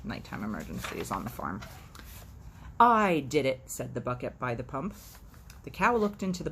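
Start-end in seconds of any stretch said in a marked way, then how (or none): 2.8-3.7 proud confession. Acted.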